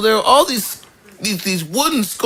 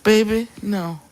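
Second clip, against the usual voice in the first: grandma voice; 2 semitones higher, 4 dB quieter than usual. Retold or imitated. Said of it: "my grandma would say".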